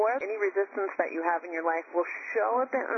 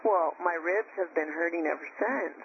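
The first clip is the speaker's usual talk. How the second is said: normal talking voice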